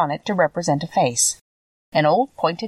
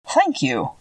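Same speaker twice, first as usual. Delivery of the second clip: higher-pitched, mildly grateful thanks; 8 semitones higher than usual. A narrator's reading. Scarecrow thanks the girl who will help, gratefully. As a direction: lift the voice in understated gratitude. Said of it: "he answered gratefully".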